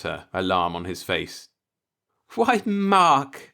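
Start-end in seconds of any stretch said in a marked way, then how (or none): 2.3-3.5 disarming laugh. A narrator's reading. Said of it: "she laughed disarmingly".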